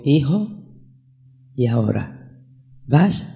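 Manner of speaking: soft, gentle, fatherly asking; retold sweet voice. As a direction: ask tenderly, dropping low and quiet. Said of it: "con una voz dulce".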